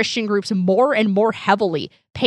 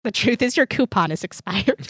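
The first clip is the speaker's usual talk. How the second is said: customer service voice. Pretend. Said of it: "customer service voice".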